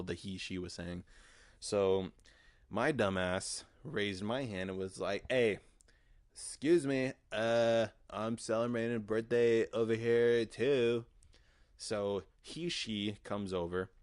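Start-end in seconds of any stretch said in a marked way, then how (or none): 5.3-11.0 loud shout across the room; calling out. Retold or imitated. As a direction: call over the music. Raising hand, calling out in club.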